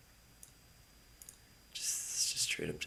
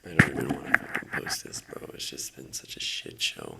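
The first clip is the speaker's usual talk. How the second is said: loud, strained and angry venting; furious rant; 4 semitones lower, 11 dB louder than usual. Real, not acted. Trader ranting to viewers about his shit show day, angry. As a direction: spit out the disgust.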